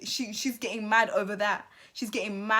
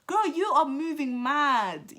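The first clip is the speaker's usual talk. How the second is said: exasperated scolding; 8 semitones higher, 4 dB louder than usual. Acted. Scolding Faye directly on camera.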